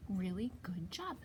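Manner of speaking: soft whispered good job; whispered praise. Real, not acted. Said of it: "praising child softly".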